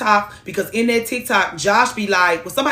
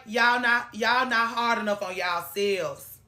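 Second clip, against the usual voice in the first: quiet quoted advice; 7 dB quieter than usual. Retold or imitated. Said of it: "I always be like".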